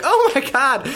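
high, loud panic; panicked. Retold or imitated. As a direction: gasp it out in fright. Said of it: "And we were like".

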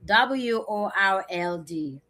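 W O R L D spelled letter by letter, slowly. Shown as a demonstration. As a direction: spell out W O R L D one letter at a time. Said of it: "it's so easy".

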